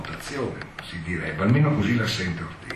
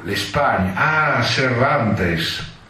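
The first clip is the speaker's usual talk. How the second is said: drawn-out, loud, rapt declamation; theatrical actor voice; 2 semitones higher, 4 dB louder, much slower than usual. Retold or imitated. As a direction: linger on the poet's name in awe. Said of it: "con voce impostata da attore". (declamazione teatrale estatica)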